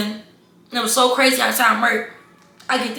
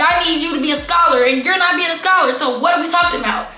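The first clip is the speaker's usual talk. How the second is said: higher-pitched, indignant disbelief; exasperated rant; 4 semitones higher than usual. Real, not acted. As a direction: push back, appalled, voice up. Outraged at hidden probation.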